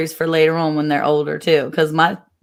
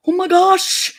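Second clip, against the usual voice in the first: mortified mom; 13 semitones higher, 3 dB louder, slower than usual. Retold or imitated.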